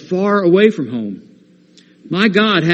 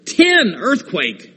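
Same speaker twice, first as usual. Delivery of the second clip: put-on the Father urgently calming a frightened child; emphatic divine promise; 9 semitones higher than usual. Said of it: "Our Father says".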